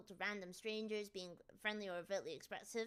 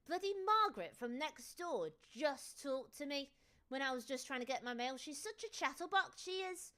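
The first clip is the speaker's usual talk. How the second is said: grumbling British neighbour; 2 semitones higher than usual. Retold or imitated. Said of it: "you go back into your house".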